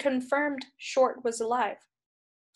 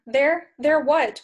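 exasperated; 3 semitones higher, 6 dB louder, much slower than usual. Acted. Root baffled and irritated.

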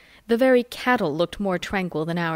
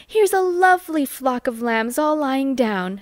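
put-on higher, cooing girl voice; girlish delight; 5 semitones higher than usual. A narrator's reading. Amy delights at the lambs for the family. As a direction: point it out sweetly, delighted. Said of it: "says Amy".

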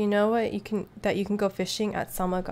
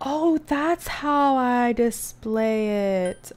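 surprised gasp; 5 semitones higher, 5 dB louder, much slower than usual. Real, not acted. Sudden discovery.

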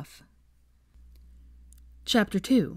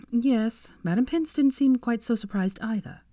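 higher, irritated retort; defensive, higher-pitched irritation; irritable; 6 semitones higher than usual. Acted. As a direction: snap back a little, annoyed. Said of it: "she said irritably".

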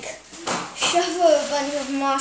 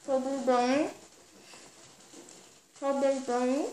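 mumbling through stuffed cheeks; cheeks stuffed full. Real, not acted. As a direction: mouth crammed, words barely formed. Mouth crammed, barely intelligible.

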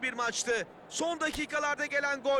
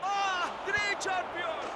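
excited commentator; 3 semitones higher than usual. Acted. Late equaliser in game commentary.

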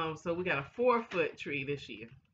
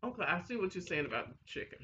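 speaking past a finger; slightly muffled lips; finger against lips; 3 dB quieter, faster than usual. Real, not acted. Seen 0: finger pressed to lips while talking; chewing itself not visible.

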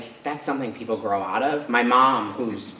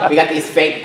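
higher, louder, words breaking with laughter; laughing while talking; 5 semitones higher, 8 dB louder than usual. Real, not acted. Speaker recalling fake nails to listeners, laughing through the words. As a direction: talk through a real laugh.

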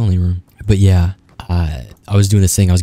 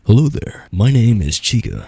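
Chica's realistic voice; 3 semitones higher than usual. Retold or imitated. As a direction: imitate the animatronic girl saying hello. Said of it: "She was like".

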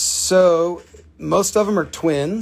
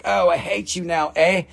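playful Canadian impression, pitched up; teasing higher-pitched Canadian voice; mock Canadian; 5 semitones higher than usual. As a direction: lightly put on a Canadian accent, groping for words. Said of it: "There's probably no Canadians here".

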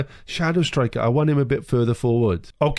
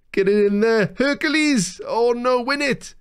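high, desperate urging; frantic high-pitched fan cry; urgent pleading shout; 10 semitones higher than usual. Real, not acted. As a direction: yell at your striker to score. Last-minute attack.

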